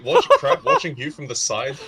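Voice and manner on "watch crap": laughing. Real, not acted. Laughing at a teammate.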